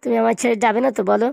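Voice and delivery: hammed-up weepy plea to her; a touch of fake tears; mock crying. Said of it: "তুমি কান্না করো না".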